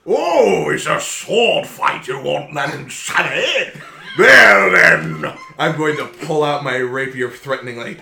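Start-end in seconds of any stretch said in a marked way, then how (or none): 0.1-5.3 put-on grandiose old-fashioned gentleman; pompous gentleman. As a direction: scold the lad with airs. Gentleman mocking sword fight.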